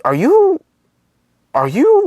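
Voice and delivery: high, halting disbelief; incredulous. Retold or imitated. Reacting to his face on a sticker, incredulous. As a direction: pitch jumps up as the question stalls.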